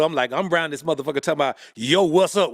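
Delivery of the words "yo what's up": "Yo, what's up?" in a country drawl; big-city slang in a Southern country drawl. Retold or imitated. Kid posing as a Chicagoan, country drawl. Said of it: "with a country drawl".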